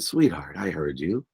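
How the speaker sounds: soft and low, gently voiced mother; retold motherly reassurance. Mom answers her bawling son, soft reassurance. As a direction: soothe quietly, as the mother in the story.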